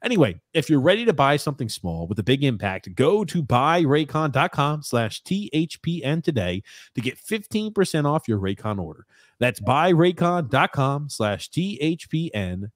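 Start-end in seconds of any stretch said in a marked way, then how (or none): 3.0-9.1 ad read. Acted. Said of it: "ad read of promo code". 9.6-12.7 slow, spelled-out promo code; deliberate ad-read pace. Acted. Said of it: "repeating promo code slowly".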